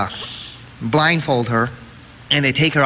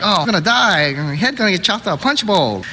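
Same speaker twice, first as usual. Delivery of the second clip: higher-pitched comic moping; mock depressed; 4 semitones higher than usual. Walking around for weeks all depressed, mock moping. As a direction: lament it with half-serious woe. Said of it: "all depressed".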